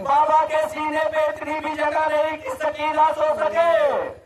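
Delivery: high keening lament with stretched phrase endings; impassioned lament preaching. Acted. (ऊँचे सुर में खिंचा हुआ मातमी बयान)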